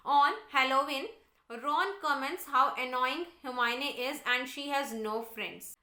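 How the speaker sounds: slow, deliberate textbook read-aloud; measured classroom reading. Real, not acted. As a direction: read it out slowly for a class, word by word. Reads the English text aloud.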